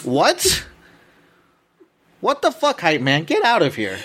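high stunned outrage; shocked. Real, not acted. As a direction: blurt it out in disbelief. Shocked at insult.

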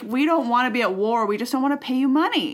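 hammed-up excuse; mock pleading. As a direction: plead your way out of paying. Acting out Mexico pleading over debt.

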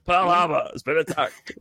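news announcement. Pretend. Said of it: "doing the fucking news again".

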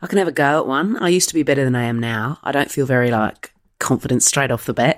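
subtle Australian accent. Shown as a demonstration. Guest has a go for the host, subtle Australian accent. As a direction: ease into an understated Aussie accent. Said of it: "can you do an Aussie accent".

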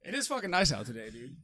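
squeaky playful exclamation; playful high voice. Pretend. Host playfully high-pitched.

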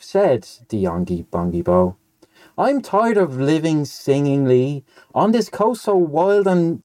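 sing-song verse reading, pitch swooping on the lines, sinking on the refrain; storybook rhyme read out with relish; nonsense poem recitation. Acted. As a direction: recite comic verse with a lilting, measured beat. Reads a nonsense poem aloud.

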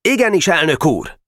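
magasabb, feszes katonai jelentés; vágd ki, mint egy közlegény; katonásan. Acted. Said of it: "és katonásan szólt". (katonás, pattogó válasz)

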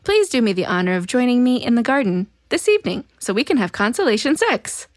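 lightly hammed-up formal seduction; mock-formal, theatrical pleading; alien's seductive voice. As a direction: read it as an alien's flowery plea. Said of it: "trying to seduce him from the alien's voice".

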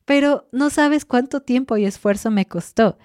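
a mock plea for recognition of the effort; exasperated protest. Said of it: "Y yo así de". (queja exasperada medio en broma, más aguda)

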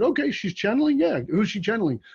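can't quite believe what he hears; incredulous. Retold or imitated. Incredulous reply to friend's invitation.

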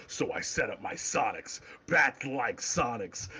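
lightly voiced brooding Batman; Batman quote. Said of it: "He's like".

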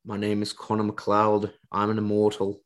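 lightly attempted Scottish accent; a hint of badly faked Scottish; terrible Scottish accent. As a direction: do a half-hearted, bad Scottish accent. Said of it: "I know that's a terrible Scottish accent".

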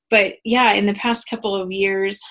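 shallow breathing, pregnant. Real, not acted. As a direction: speak short of breath. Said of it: "I'm out of breath 'cause I'm so pregnant".

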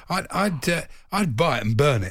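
broad Yorkshire voice; Yorkshire accent. Pretend. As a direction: say it like a blunt Yorkshireman. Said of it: "Why did you say that in a Yorkshire accent?".

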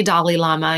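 Dalai said like the name Dolly; own-accent pronunciation. Shown as a demonstration. Guest shows her own way of saying Dalai, sounding like Dolly. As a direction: say "Dalai" as "Dolly" before Lama. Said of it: "you don't say".

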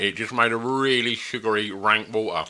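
talking around a lollipop; words muffled by a lollipop in the mouth; mouth full. Real, not acted. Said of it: "Sorry, I got the lollipop in my mouth".

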